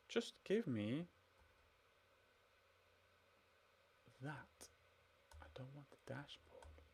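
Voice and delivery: soft, fading annoyed muttering; frustrated mutter. Real, not acted. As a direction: mutter at the screen, trailing off. Fighting the browser.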